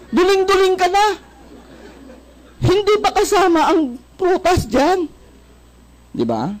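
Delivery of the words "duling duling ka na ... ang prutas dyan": much higher, laughing through it; laughing joke. Real, not acted. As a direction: giggle at the silly image. Joking about eating cabbages. (natatawang biro, mataas ang boses)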